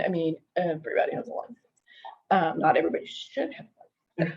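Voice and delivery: quick unvoiced whisper; hushed quick aside. Real, not acted. Aside muttered to listener.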